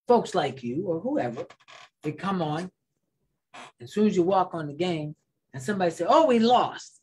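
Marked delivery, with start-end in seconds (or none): 6.1-7.0 high, loud mock protest; complaining fan. Host voicing fans before kickoff, mock outraged complaint. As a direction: imitate an upset fan wailing early.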